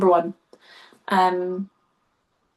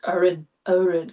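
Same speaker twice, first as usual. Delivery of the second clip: attempted Northeast accent; 2 semitones lower than usual. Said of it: "I can't even do it".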